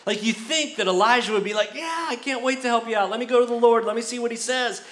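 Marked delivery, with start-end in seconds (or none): 1.8-4.8 pitched-up, overly keen to help; gushing yes, put on; eager mock helpfulness. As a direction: play a pretend eager helper, high-voiced. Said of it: "But he's got this attitude".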